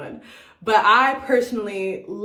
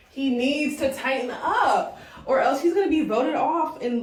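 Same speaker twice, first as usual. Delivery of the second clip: laughing as she repeats it, slower; 4 semitones higher than usual. Real, not acted. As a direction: viewer warned with a laugh, drawn out and amused.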